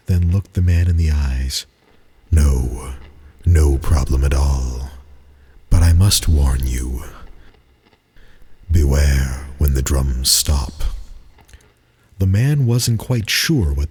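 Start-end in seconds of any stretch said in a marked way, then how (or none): 2.3-10.8 lower, slow grave warning; ominous innkeeper. Acted. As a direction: warn him darkly of the drums. Innkeeper warns the guest.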